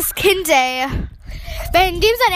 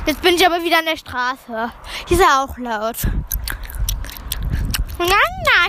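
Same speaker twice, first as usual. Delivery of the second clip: talking while chewing gum. Real, not acted. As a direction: gum in the mouth. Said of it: "ich hab Kaugummi im Mund".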